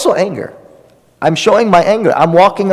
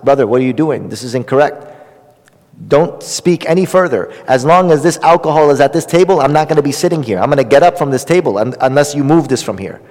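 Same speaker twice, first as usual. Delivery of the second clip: firm and strict. Shown as a demonstration. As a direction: set the limit calmly but strictly. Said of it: "in a very firm and very strict manner".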